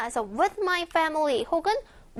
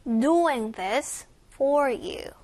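slow phrase with "Doing" and "for" stressed; drawn-out teaching model, weight on "Doing" and "for"; much slower than usual. Shown as a demonstration. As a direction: lean on "Doing" and "for". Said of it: "Doing과 for 강세 주세요".

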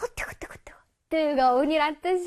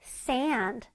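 slower sand; 3 semitones lower than usual. Shown as a demonstration. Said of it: "조금 이게 천천히 해볼까?".

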